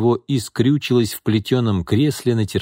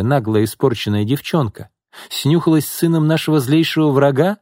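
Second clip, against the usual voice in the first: high, raised voice of an angry aunt; scolding aunt; 6 semitones higher than usual. A narrator's reading. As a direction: scold the spoiled girl. (гневно отчитывая)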